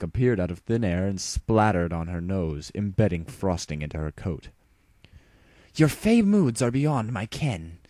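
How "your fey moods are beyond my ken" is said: slow, sulky grumble; higher, slow, sulky mutter. Acted. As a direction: grumble it with wounded royal dignity. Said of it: "Luna muttered".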